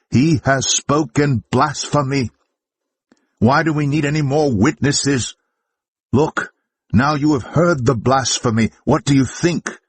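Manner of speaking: a scandalised priest denouncing blasphemy; outraged high priest. Acted. High priest rages at Jesus before the council, outraged and high.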